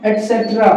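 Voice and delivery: एटसेटरा as 'et-set-ra'; careful pronunciation. Shown as a demonstration. Teacher reads out the full form, carefully pronounced. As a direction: sound the t in एटसेटरा. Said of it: "full form में बोलते हैं".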